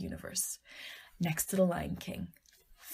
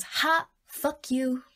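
slow, slightly raised mocking jeer; taunting brain; 4 semitones higher, slower than usual. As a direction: jeer as your own spiteful brain. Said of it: "my stupid brain goes".

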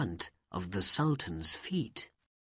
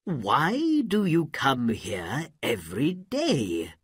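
commanding Sultan; 2 semitones higher, 4 dB louder than usual. Acted. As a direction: order her up from the floor. Sultan addresses kneeling mother.

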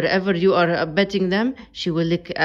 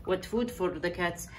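hushed; 7 dB quieter than usual. Real, not acted. Quiet during cat ASMR.

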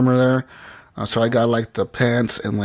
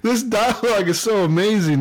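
excited; 7 semitones higher than usual. Real, not acted. Excited reaction, laughing.

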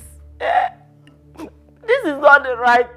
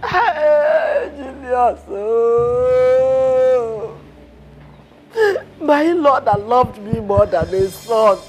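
sobbing lament for her husband; wailing widow. Acted. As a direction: cry out his name in grief.

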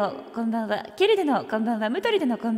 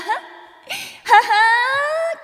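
higher, slow squeaky cartoon mouse ha-ha; Mickey-style laugh; 9 semitones higher, 4 dB louder, much slower than usual. Streamer teases chat with cartoon mouse laugh. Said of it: "マウスじゃね？".

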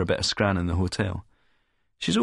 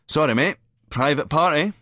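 high, loud dismissal; raised-voice, offhand refusal; brisk brush-off; 7 semitones higher, 4 dB louder than usual. A narrator's reading. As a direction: turn him away loudly, pitched up. Brusquely turns away hopeful man.

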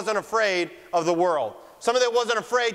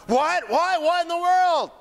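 shocked disbelief; 7 semitones higher, slower than usual. Retold or imitated. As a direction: sputter it out in disbelief. Voicing a shocked critic.

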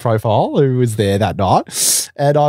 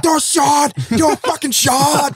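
much higher, mocking voice of a mate pushing drinks; pushy mate; 12 semitones higher than usual. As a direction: ham up the friend egging you on to drink. Mate pushing shots at party.

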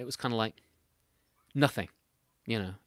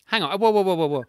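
disbelief; 7 semitones higher, 7 dB louder than usual. Real, not acted. Host interrupts in disbelief.

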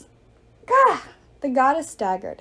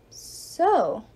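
hesitant, uneasy opener; unsure what comes next; mild nervous pause; a little nervous. Acted. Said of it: "Hazel sounded a little nervous".

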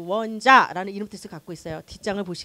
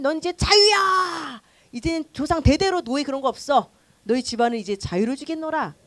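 proclaiming freedom; 2 semitones higher, 3 dB louder than usual. Retold or imitated. (천천히 엄숙하게 선포)

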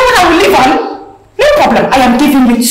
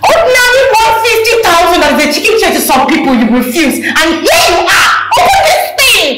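angry rant; 4 semitones higher than usual. Acted.

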